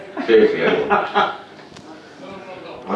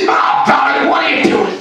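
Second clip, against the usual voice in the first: very high startled yell; startled shout. Retold or imitated. Woman yelling at him for sneaking up. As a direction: yelp in fright at him behind her. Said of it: "It's like".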